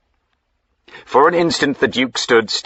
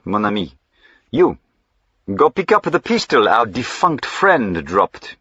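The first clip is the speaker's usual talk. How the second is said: put-on French accent; 4 semitones higher than usual. Jack as French-accented highwayman.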